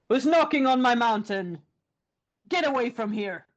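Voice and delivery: angry troll. Acted. Troll voiced in folk tale.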